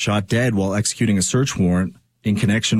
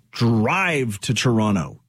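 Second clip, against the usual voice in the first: drawn-out DRIVE; "drive" held long, then falling away; coffee-wired emphasis; slower than usual. Real, not acted. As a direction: stretch out "drive" as if over-caffeinated. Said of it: "Can you tell I had coffee?".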